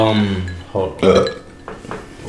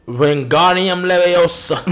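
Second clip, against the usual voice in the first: slow, drawn-out magic spell; spell incantation; 5 semitones higher, slower than usual. Retold or imitated. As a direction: cast it slowly like a wizard. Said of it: "She said".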